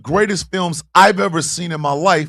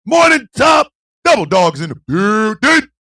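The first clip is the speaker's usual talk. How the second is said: calling out; 4 semitones higher, 5 dB louder than usual. Real, not acted. Calling out greetings to viewers.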